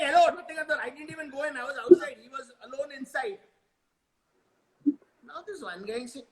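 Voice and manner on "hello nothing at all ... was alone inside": high-pitched acted denial; indignant protest. The speaker defending herself to the group, indignant protest. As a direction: protest innocence in a higher voice.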